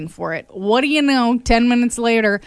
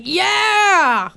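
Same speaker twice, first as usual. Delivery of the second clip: mock cheer, much higher; cheering boyfriend; 6 semitones higher, much slower than usual. Host imitates her boyfriend cheering her purchase. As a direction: hype her up like a proud boyfriend.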